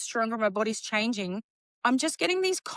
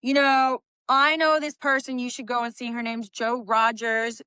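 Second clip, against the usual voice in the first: put-on American accent. Shop guy Vinny recommending a posing coach, light American accent. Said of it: "in his American accent".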